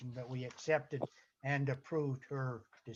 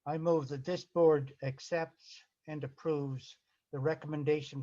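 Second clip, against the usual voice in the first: slow, measured reading of a motion; formal motion read slowly in broken phrases. Real, not acted. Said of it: "I'll read it slowly for you".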